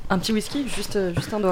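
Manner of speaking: hushed tempting offer; soft seductive. Acted. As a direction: coax softly, inviting. Acted seductive invitation.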